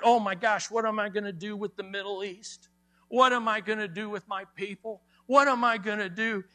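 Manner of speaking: quick, fretful mock panic; mock anxious. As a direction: rattle off worried questions in pretend panic. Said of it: "He's not anxious".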